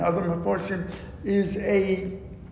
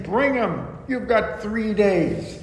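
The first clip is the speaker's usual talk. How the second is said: higher, breezy sarcastic offer; mock permissive; 4 semitones higher than usual. Idolatrous priests voiced as lax and tempting, mildly sarcastic. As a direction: hand it over like a cheap bargain. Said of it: "And they're saying".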